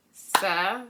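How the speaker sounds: Serenity as a clap-along, with gaps between syllables. Shown as a demonstration. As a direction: count out se-ren-i-ty, one beat per syllable. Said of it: "How many times did we clap?".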